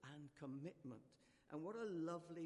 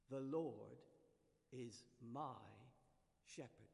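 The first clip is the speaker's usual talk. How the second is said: reassuring recital; 3 semitones lower, slower than usual. Shown as a demonstration. Preacher applying the rhyme to worries, gentle and fading. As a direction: say it as comfort in fear. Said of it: "when we're struggling with worries and fears".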